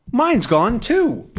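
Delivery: mock dismay, drawn out slowly; dismayed discovery. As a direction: realize your own wallet is gone too. Second man finds wallet gone.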